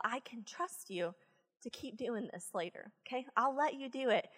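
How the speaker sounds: soft, steady and serious; quiet calm talk. Retold or imitated. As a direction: lay down the deal gently.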